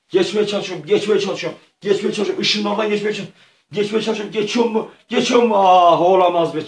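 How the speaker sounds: play-acted suspense, pitch climbing steadily to a loud cry; mounting tension. Player inching through the light beams, in mounting tension. Acting out a tense attempt at the beams.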